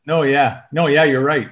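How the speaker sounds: loud, laughing fake agreement with no in front; mock eager agreement. Guest mocking listeners who cut in, loud and laughing. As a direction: play the know-it-all cutting in to agree.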